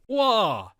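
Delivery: mock astonishment, pitch jumping up; shocked reaction.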